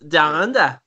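Aussie catchphrase voice; mock Australian accent. Friends practising the accent, mock Australian. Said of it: "Yeah, that's it".

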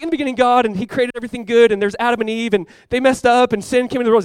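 retold anxious recital; struggling for words. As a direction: blurt it out like a flustered teen. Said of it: "struggling over my words".

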